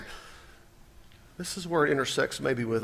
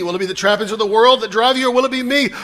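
building intensity; 7 semitones higher, 9 dB louder, faster than usual. Acted. Preacher building rhetorical questions.

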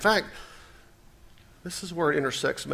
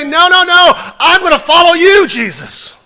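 much higher, loud, pleading devotion; eager follower; 8 semitones higher, 14 dB louder than usual. Retold or imitated. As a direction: cry out like someone who chooses Jesus over everything. Voices devoted follower's answer.

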